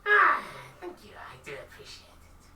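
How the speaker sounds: high shopkeeper voice. Acted. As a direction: answer sweetly in a high falsetto.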